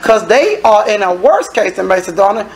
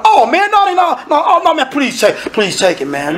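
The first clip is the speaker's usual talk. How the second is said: pleading giver; 5 semitones higher than usual. Retold or imitated. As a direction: beg at first, then let it fade away. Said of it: "you go".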